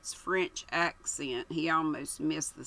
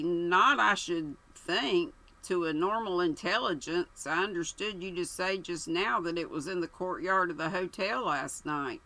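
coldly. Acted. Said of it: "Colonel Melchett said coldly".

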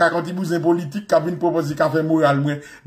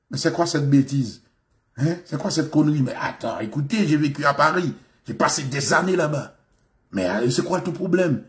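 put-on proper French, slightly lowered; affronted Parisian French; 2 semitones lower than usual. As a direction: protest in careful Parisian-style French. Acts affronted returnee from Paris. (français parisien affecté, indigné)

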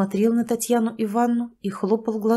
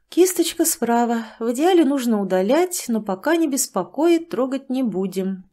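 droning doctor; 4 semitones higher than usual. Acted. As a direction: drone it like a bored doctor. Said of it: "монотонным голосом бубнила врач".

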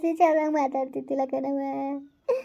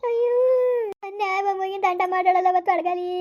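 crying. Acted. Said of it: "ಅದಕ್ಕೆ ಹಂಗ್ ಅಳ್ತಾ ಇದೀರಿ?".

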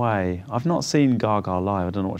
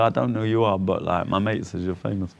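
London chav voice. Retold or imitated. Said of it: "I'm doing a bit of a London chav voice there".

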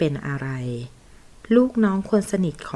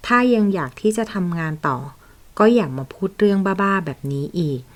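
angry rebuke; 2 semitones higher, 4 dB louder than usual. Acted. Boss angrily warns his secretary off, loud and contemptuous. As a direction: put her in her place, hard.

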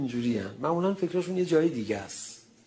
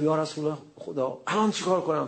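eager question; 3 semitones higher than usual. Retold or imitated. Ammar excited asking.

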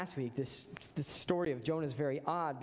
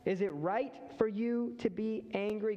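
higher, gently pressing voice of God; God's probing question; 6 semitones higher than usual. Acted. God presses Jonah on his anger, higher, probing. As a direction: lean into the question, a touch higher. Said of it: "he turns around the question".

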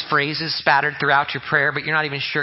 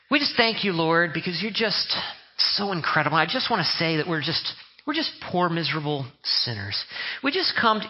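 mock just prayer. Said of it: "Or maybe it's the word just".

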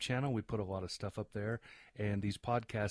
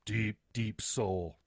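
drawn-out mock solemnity; much slower than usual. Mock praise of co-host, drawn-out words.

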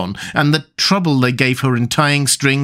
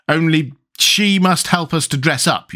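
higher-pitched petulant condition; lightly voiced sulk, pitched up; sulky; 6 semitones higher than usual. A narrator's reading. Tweedledee agreeing to battle, mildly sulky. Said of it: "the other sulkily replied".

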